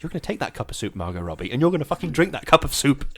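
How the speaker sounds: stern mum. Pretend. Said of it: "for your mum then".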